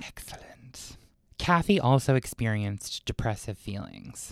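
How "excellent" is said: very soft, gloating whisper; sinister whisper. Pretend. Storyteller pleased her co-host has chills, sinister whisper.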